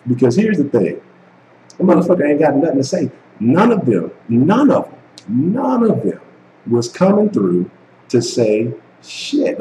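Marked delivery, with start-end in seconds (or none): 3.4-6.2 each none of them climbs higher, pitch rising on "none"; louder on every "none"; building emphasis. Acted. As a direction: hammer "none" harder each time.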